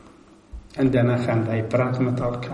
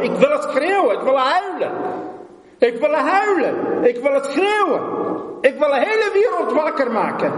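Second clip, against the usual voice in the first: anguished cry; 11 semitones higher than usual. Acted. Preacher reliving the night he wanted to scream, anguished high cry. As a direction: wail it out like a man in agony who must not wake his family. Preacher crying out his pain.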